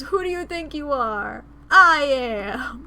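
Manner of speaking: imitating the bowler's boast. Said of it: "turns the audience and goes".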